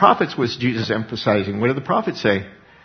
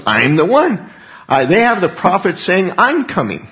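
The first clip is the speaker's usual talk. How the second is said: loud, raised, emphatic proclamation; emphatic declaration; 6 semitones higher, 6 dB louder than usual. Acted. Preacher voicing Jesus announcing himself as the promised one, emphatic declaration. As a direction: proclaim it with force, pitch lifted.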